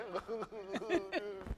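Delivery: soft, wordless mock sobs; mock crying. Preacher acts out crying in the shower, mock sobbing. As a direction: pretend to sob quietly. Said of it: "You just crying".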